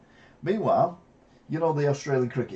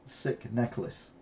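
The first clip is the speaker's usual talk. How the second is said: slow drawn out; 5 dB quieter, much slower than usual. Retold or imitated. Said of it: "It wasn't a sick necklace".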